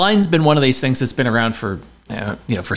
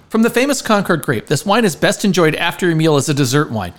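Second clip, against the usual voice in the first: reading a label; 4 semitones higher than usual. Shown as a demonstration. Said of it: "I'll read the description of it".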